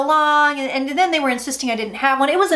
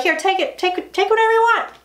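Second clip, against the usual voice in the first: eager giver; 7 semitones higher than usual. Retold or imitated. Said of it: "He's gonna be like".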